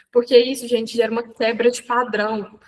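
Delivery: usual speaking voice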